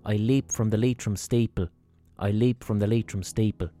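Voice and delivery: mock-solemn poem reading with measured pauses; poem recital. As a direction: recite it line by line, leaving space between lines. Reads out a poem.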